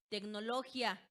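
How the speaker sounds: tecnología said as "tec-no-LO-gya"; diphthong mispronunciation. Shown as a demonstration. Teacher showing the word without its accent, diphthong. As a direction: stress LO in tecnología and squash gia into one syllable. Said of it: "pronunciaríamos como".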